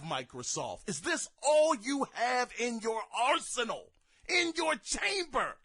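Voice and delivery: indignant rhetorical questions, climbing at the end; exasperated challenge. Real, not acted. Gamer challenging Microsoft's weak arsenal, exasperated. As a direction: demand an answer in disbelief. Incredulous rant at Microsoft's show.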